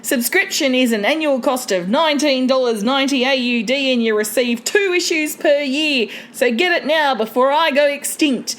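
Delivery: ad read in a mild put-on Australian accent; the caribou takes over the sponsor read, Australian accent. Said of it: "Grace, can you take over for me?".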